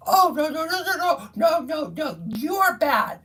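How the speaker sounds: hammed-up crying official scolding; mock whiny bureaucrat. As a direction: parody her shrill outraged denial. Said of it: "bitch that's running The state".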